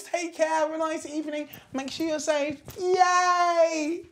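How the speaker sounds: vlog outro. Acted.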